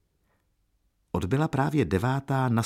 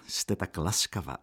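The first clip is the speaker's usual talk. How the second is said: heartfelt, softer thanks; cordial; 3 dB quieter than usual. A narrator's reading. Young lodger thanks the landlady for tea, heartfelt. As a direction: thank her warmly and sincerely. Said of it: "odvětil srdečně".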